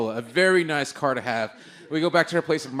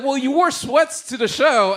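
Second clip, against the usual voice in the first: mock lady voice; 9 semitones higher, 6 dB louder, slower than usual. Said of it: "she was like".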